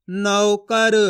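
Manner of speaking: नौकर in slow, level, evenly drawn syllables; blended syllables. Shown as a demonstration. Teacher blending the letters for learners, slow and deliberate. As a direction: join the sounds slowly, full au in नौ. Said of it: "उसी तरीके से आपको भी पढ़ना है".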